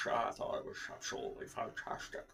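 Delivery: soft, low slurred impression; Sean Connery impression. Joking with co-host about the worst Bonds, hushed impression. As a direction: put on a hushed Bond-actor voice. Bond impression while discussing Sean's films.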